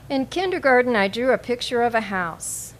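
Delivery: measured poetry recital with pauses between phrases; deliberate, evenly phrased poem reading. Acted. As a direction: read it out as a poem, line by line. Reads own poem aloud.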